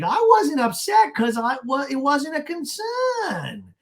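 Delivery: high, slow mock whine; Gina. Gina defending herself to Shannon, mock whine. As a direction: stretch it out in hammed-up protest. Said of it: "Gina's like".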